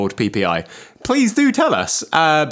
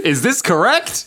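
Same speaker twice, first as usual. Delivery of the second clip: slow automated question; robotic confirmation prompt; phone menu voice; 7 semitones higher, slower than usual. Pretend.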